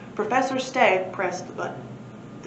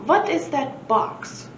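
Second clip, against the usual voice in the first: creepy wumpire; 6 semitones higher, slower than usual. Acted. Rattiest wumpire asks.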